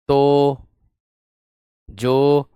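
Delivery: ordinary talk, nothing marked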